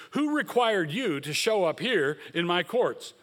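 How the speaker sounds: sarcastic. Retold or imitated. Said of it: "He asks them sarcastically".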